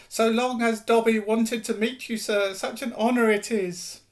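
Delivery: high, reverent house-elf squeak; a humble elf thrilled to meet his hero; awed house elf. Acted. Dobby speaks with awe.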